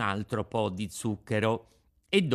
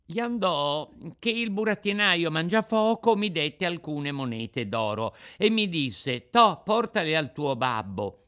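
put-on higher, eager boyish account; Pinocchio, puppet child storyteller; 7 semitones higher, 5 dB louder than usual. Puppet telling the Fairy his adventure, eager. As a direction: recount it like an excited puppet boy.

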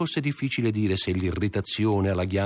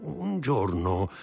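higher, stuttering eagerness; wheedling old crony; 6 semitones higher than usual. Acted. Old friend angling for a visit inside, wheedling. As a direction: brush it aside, then coax. Plays Caderousse.

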